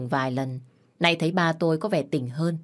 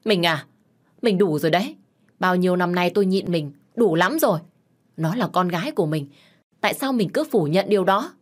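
sharp, a little louder scolding; angry scolding; 2 semitones higher, 4 dB louder than usual. Acted. Wife finally snapping at her husband, angry scolding. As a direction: put your foot down at last, scold him. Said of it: "Má tôi lúc này mới tức giận, quát lớn".

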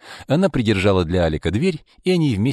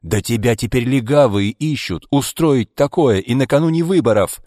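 shouting; 6 semitones higher, 5 dB louder than usual. A narrator's reading. Ivan shouting at Maria.

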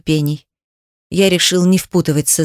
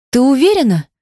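smirking; 6 semitones higher than usual. A narrator's reading. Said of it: "усмехнулась я".

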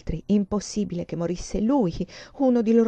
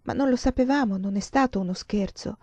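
saddened. Acted. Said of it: "Silvia disse rattristata".

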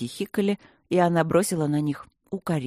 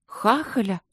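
stern; 5 semitones higher, slower than usual. A narrator's reading. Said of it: "переспросила строго Алина".

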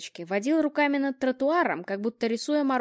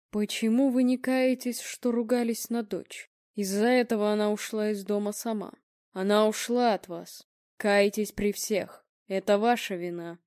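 stony voice. Acted. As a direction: pronounce judgement like a cold seer. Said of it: "каменным голосом заговорил Будимир". (медленно, каменным голосом)

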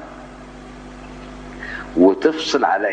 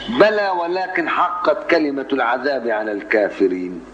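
slow measured recitation; Quran recitation; slower than usual. Shown as a demonstration. Teacher reciting the Zumar verse slowly. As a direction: chant the verse unhurried.

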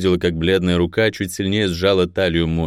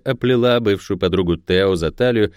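usual speaking voice

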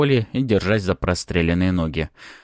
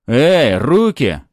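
loud, high angry order; angry growl; 6 semitones higher, 8 dB louder, much slower than usual. A narrator's reading. Armed cop ordering hero's hands, angry growl. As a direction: growl out a sharp command. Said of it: "рыкнул на меня Лёха".

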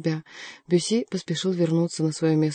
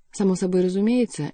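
plain reading voice

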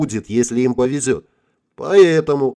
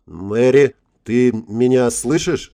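cracking voice; slower than usual. Acted. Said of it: "срывающимся голосом произнёс он".

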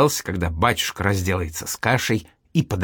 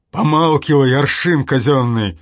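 higher and much louder, thundering father; 4 semitones higher, 6 dB louder than usual. Acted. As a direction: boom it down at the boy to shut him up. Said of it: "сразу громыхнул Семён Ульянович". (громыхая, во весь голос)

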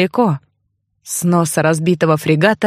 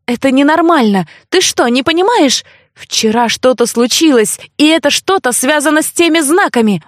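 put-on higher, urgent voice of a frightened girl; alarmed young woman; 4 semitones higher than usual. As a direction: plead with him, alarmed. Heroine argues, frightened. (встревоженная девушка, выше голосом)

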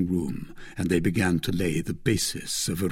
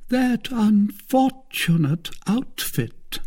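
groaning; 12 semitones higher, slower than usual. Acted.

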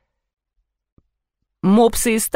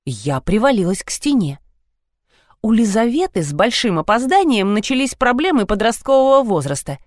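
ordinary delivery, nothing marked

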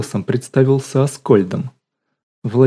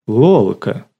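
startled, louder cry of her name; a sudden surprised call to an old friend; astonished exclamation; 4 dB louder than usual. A narrator's reading. Лёня surprised to find Lola still bathing, a louder astonished cry. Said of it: "изумился Лёня".

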